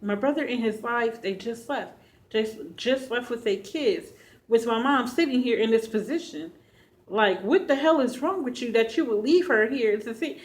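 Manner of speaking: loud, high, furious rant at her brother; livid retelling. Retold or imitated. Daughter furious that her brother left sick Mom, loud angry outburst. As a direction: blast the brother for walking out on Mom. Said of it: "So I'm really mad. I mean, I am livid".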